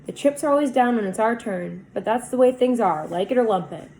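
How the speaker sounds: good-natured. Acted. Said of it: "with a good-natured grin".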